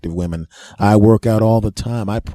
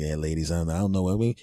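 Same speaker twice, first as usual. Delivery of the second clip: breathless cool; 5 semitones lower, 8 dB quieter, faster than usual. Retold or imitated. Winded patient trying to stay cool.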